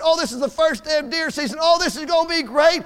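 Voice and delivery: a bright, eager imitation of a hunting buddy; excited buddy. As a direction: mimic his giddy opening-day excitement. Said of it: "Oh, he's so excited".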